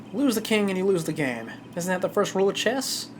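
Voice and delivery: put-on easygoing southern accent. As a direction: play it as a cocky southern lawman. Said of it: "I'm really popping off this southern accent".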